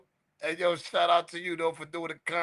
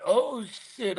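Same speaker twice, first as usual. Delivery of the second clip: high, drawn-out amused disbelief; slow, high, overcome with amusement; cracking up; 6 semitones higher, slower than usual. Real, not acted. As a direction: reel from a joke, voice pitched high. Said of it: "I'm crying".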